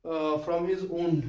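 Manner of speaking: said very slowly, word by word; slow example sentence. Shown as a demonstration. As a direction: dictate it slowly so they can write. (बहुत धीमी गति से उदाहरण)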